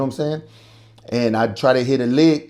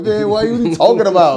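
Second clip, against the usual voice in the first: exasperated; 8 semitones higher, 5 dB louder than usual. Retold or imitated. Reacting to friend's silly question.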